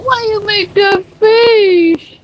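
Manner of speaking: very high, slow whiny coo. Real, not acted. Owner cooing at the dog's sad face, high and slow. Baby talk to dog.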